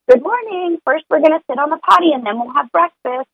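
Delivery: put-on high bright good-morning voice to a toddler; cheery morning greeting. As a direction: greet the little one up high and sunny. Cheerful morning routine to child.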